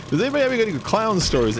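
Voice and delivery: high, fast, eager schoolgirl voice; imitating Jerry Blank. Jerry Blank asking the class, high eager imitation. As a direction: chirp it out high and quick. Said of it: "she's like".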